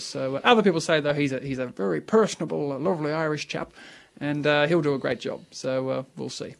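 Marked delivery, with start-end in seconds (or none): 1.1-5.4 a light Irish lilt; lightly put-on Irish accent for the new boss. Presenter praising the Irish chap in a light Irish accent. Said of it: "that's a very fine Irish accent".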